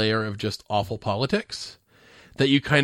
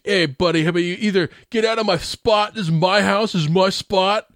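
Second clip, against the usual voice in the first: pitched-up prank-call tough guy; prank-call thug; 5 semitones higher than usual. Retold or imitated. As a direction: bark it like a mouthy prank caller. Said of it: "He sounds like one of those prank callers".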